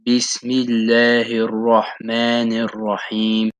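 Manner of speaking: slow, measured recitation of the Basmala; Quranic recitation. Shown as a demonstration. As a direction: recite it slowly, like a model for learners. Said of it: "the first verse of Surah Al-Fatiha is the Basmala".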